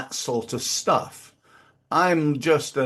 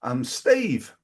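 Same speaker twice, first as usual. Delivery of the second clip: friendly networking intro. Shown as a demonstration. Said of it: "I'm gonna go".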